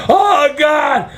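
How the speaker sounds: a hammed-up clutch-the-chest gasp of a cry; Fred Sanford. Running back from the storm, hammed-up heart-attack cry. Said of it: "I felt like Fred Sanford".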